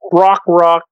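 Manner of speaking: cawing like a crow. Retold or imitated. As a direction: caw it out like a crow bird. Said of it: "So there's my crow voice".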